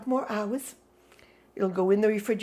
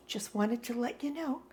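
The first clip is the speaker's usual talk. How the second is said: resigned sigh; 9 dB quieter than usual. Real, not acted.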